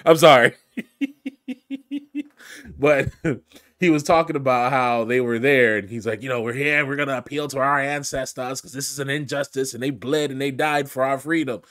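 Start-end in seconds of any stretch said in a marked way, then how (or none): 0.0-3.4 loud apology cracking into high laughter; can't hold the laugh in; burst of laughter. Real, not acted. Vlogger cracking up while apologizing to Australians, laughing. 6.2-11.6 mock Australian accent. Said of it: "they have this Australian accent".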